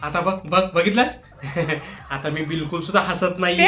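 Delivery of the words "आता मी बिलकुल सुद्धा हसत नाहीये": giggling denial; husband fakes seriousness to his wife, laughing; laughing while denying. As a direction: insist you're not laughing, through a laugh. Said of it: "ते काय हसताय?".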